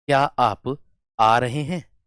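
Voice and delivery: gentle, unhurried question; slow demo of an affectionate question; said lovingly. Shown as a demonstration. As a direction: ask it slowly and kindly. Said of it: "एक तो प्यार से बोल दिया".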